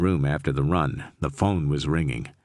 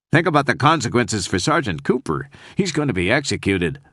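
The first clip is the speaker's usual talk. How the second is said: tearful; 4 semitones higher than usual. Acted. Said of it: "she was sobbing".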